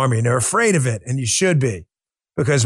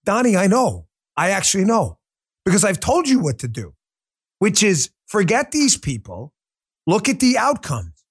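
New York accent; 4 semitones higher than usual. Shown as a demonstration. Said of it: "Back to my non-New York kind of speaking tone".

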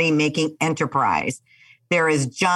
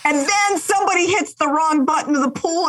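high, laughing storytelling; bursting with laughter at it; a giggly high-pitched telling; excited laughing retelling; 10 semitones higher than usual. Real, not acted. Excited retelling of wave pool.

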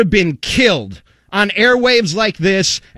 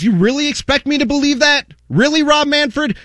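incredulous; 5 semitones higher than usual. Acted. Incredulous rhetorical rant.

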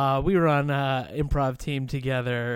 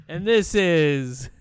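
slow announcer intro; 2 semitones higher, 4 dB louder, much slower than usual. Acted.

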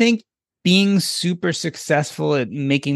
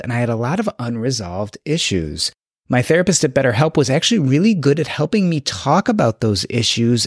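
polished, steady sponsor read; host delivering a prepared testimonial ad; podcast ad read; 2 semitones lower than usual. Acted. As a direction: read scripted ad copy sincerely, in an even presenter's rhythm.

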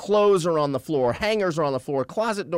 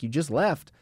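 incredulous question. Retold or imitated. Man texting back his date who left, incredulous. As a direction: question it in disbelief, rising at the end.

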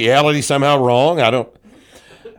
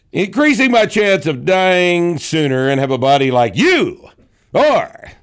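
high, swooping, emphatic declamation; mocking read-out; 7 semitones higher, 4 dB louder than usual. Host reading a hater's comment, high mocking declamation. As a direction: blow up the comment with exaggerated punch.

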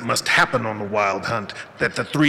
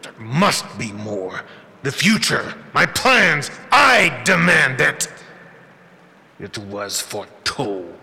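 measured menacing overlord; cold villain voice; slower than usual. Acted. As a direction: speak down with icy disappointment. Villain demands.

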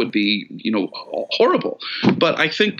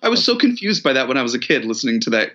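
normal talking voice

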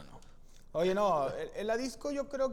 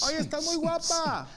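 higher, slow smooth come-on; demo pickup line; 10 semitones higher, 4 dB louder than usual. Shown as a demonstration. Showing how to approach a girl, higher and slow. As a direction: lay on the charm, slowly. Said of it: "se lo voy a dar el ejemplo".

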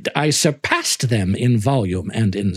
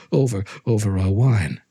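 nervous laugh. Acted. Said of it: "a low laugh".

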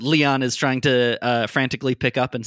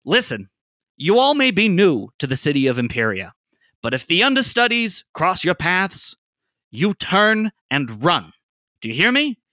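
higher, louder urgent warning; 3 semitones higher, 4 dB louder than usual. Acted. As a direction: press the warning hard on turn and run. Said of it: "says to Leon, like".

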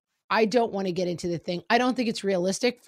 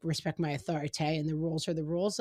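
mock automaton; 3 semitones lower, 5 dB quieter, faster than usual. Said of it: "the automaton of".

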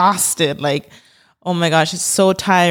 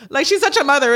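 laughing through the words; 6 semitones higher than usual. Real, not acted. Praising her friend as a mother, laughing. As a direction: let a laugh carry the line. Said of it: "laugh heard on the line".

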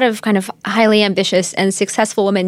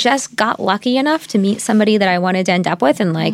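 high, laughing disbelief; pushing back in disbelief; incredulous; 4 semitones higher than usual. Retold or imitated. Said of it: "she was like".

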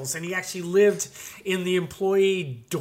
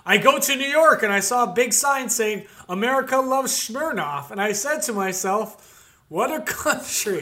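Smirnoff impression; 4 semitones higher, 4 dB louder than usual. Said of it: "I'll do it".

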